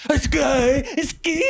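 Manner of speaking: contorted, rising pitch; gurning voice. Shown as a demonstration. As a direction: twist your face and squeak. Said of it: "Okay, okay. We're like".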